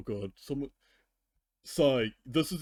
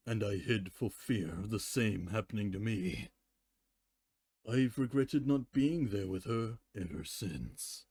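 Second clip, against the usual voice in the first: story reading with character voices; story narration; 2 semitones lower, 3 dB quieter than usual. Acted. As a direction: read the fanfic aloud with lowered, softer voices for Luna. Reads fanfic aloud with voices.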